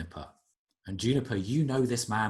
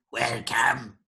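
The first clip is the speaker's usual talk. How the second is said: creature voice calling welcome; 4 dB louder than usual. Acted. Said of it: "you hear another of the voices go".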